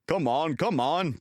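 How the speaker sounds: loud, straining puff of effort; big engine puffing at the coaches, loud. A narrator's reading. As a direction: heave the train along. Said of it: "puffed Gordon to the coaches".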